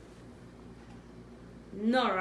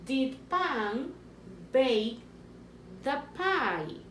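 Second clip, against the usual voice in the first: teacher repeating the dictation, stressing bake; slower than usual. Shown as a demonstration. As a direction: lean on bake so they hear it. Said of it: "Choose the word".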